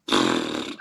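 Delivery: quick demo gasp. Shown as a demonstration. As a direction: suck in air before going under. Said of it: "being able to say".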